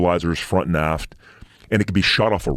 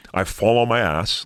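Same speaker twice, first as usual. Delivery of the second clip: usual speaking voice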